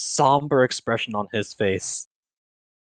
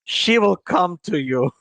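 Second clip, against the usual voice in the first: put-on Scottish accent; 3 semitones higher than usual. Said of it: "slipped into a Scottish accent".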